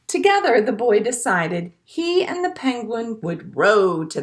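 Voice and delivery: gentle storybook read-aloud; picture-book narration for a class; reading to children. A narrator's reading.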